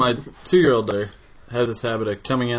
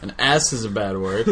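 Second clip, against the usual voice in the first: put-on toddler scolding; 6 dB louder, slower than usual. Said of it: "she's like".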